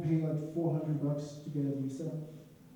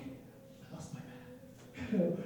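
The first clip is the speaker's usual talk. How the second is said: whispered panic; 3 semitones higher, 6 dB quieter, much slower than usual. Retold or imitated. Panicked at losing his bag.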